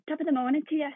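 half-hearted Irish, slightly northern English; failed Irish accent. Shown as a demonstration. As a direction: try Irish but stay in your northern accent. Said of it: "you sounded like yourself".

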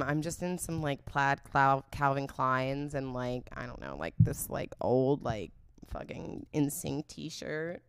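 slow, unsexy rambling reply; mock frumpy answer. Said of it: "You don't wanna be like".

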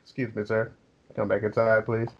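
smooth and polite. Retold or imitated. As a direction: ease him back in gently. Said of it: "slide smooth up to him".

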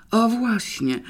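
wyżej, radosne zawołanie z ulgą; chwyć się podsuniętej wymówki; z wyraźną ulgą. A narrator's reading. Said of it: "zawołał fotoreporter z wyraźną ulgą". (fotoreporter z ulgą przytakuje sekretarce)

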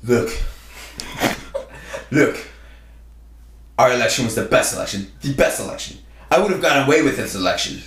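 Donald Trump voice, lightly done; ad-libbed Trump bragging; Trump impression. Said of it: "let me hear your Trump".

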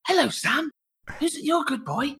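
put-on high sing-song baby talk to a pet; talking to a dog. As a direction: coo at him like a good boy. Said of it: "I go".

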